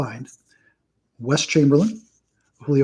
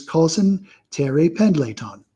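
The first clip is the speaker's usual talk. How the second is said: Balky accent impression; 2 semitones higher than usual. Collector can't resist the sitcom gag, mock foreign accent. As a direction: imitate a sitcom accent, stretching the name. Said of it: "I, I can't help myself".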